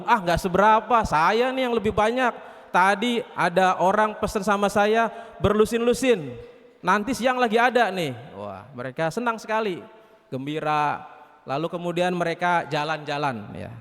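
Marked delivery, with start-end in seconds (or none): 0.0-8.2 higher, lightly acted boasting; boastful rival. Apem outdoing klepon on orders, lightly boastful. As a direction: brag a little louder, one-upping a rival. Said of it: "Apem bilang".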